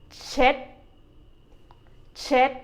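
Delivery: เช็ด like English "check" ending in D; short เช็ด closed with the tongue as for D; D-sound ending. Shown as a demonstration. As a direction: end เช็ด on a stopped D, not K. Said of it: "change the K sound into a".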